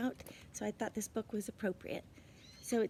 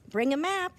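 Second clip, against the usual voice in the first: bossy brother; 6 semitones higher, 7 dB louder than usual. A narrator's reading. Brother gives advice.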